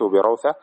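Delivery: بروثة with an open 'a' on the ra and a vowelless waw; fatha, then sukun. Shown as a demonstration. Teacher reading out the hadith wording, fatha then sukun. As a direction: say بروثة as bi-rawtha, gliding into the waw. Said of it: "بفتح الراء وسكون الواو".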